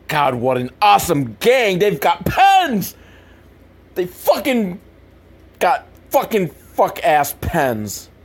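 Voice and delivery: slow, sarcastic amazement; mock awe. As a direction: sneer at the pens slowly.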